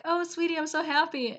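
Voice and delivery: high, sweet relieved voice; mock gushing. Relieved husband to his wife, imitated gushing.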